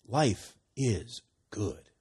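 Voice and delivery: slow, firm "Life is good." with weight on "Life"; emphatic statement. Shown as a demonstration. Preacher making a blood covenant statement, emphatic and slow. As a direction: declare "Life is good." slowly like a covenant vow. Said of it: "strong, emphatic blood covenant statement".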